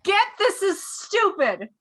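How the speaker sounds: half-dragon. Acted. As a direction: drag it out as a big dragon. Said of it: "It is very large draconic voice".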